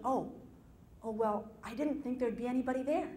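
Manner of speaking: softly imitated hesitant caller; gentle, faltering surprise at being answered. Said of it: "it's this very gentle voice".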